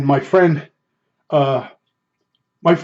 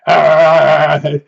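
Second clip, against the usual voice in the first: Muppet impression; 3 dB louder than usual. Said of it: "Muppet Show".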